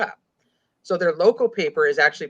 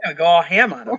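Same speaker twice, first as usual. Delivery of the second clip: emphatic; 7 dB louder than usual. Acted. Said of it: "you said it just like that".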